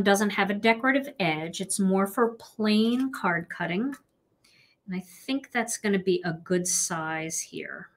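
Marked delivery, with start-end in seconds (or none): 4.9-7.9 whispering. Real, not acted. Whispered aside while cutting.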